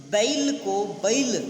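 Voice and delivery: बैल drawn out slowly, ai split into a-i; mispronounced diphthong. Shown as a demonstration. Teacher slowly demonstrating the eastern UP error. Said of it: "जैसे".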